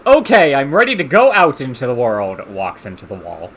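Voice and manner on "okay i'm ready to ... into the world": eager character voice. Pretend. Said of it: "Drinks potions".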